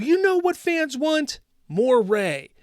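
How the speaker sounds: smug mock executive, rising on "know"; lightly voiced studio boss pleased with himself; mock Lucasfilm exec. Mocking Lucasfilm bosses at a table, smug mock voice. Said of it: "Lucasfilm just sitting around a table".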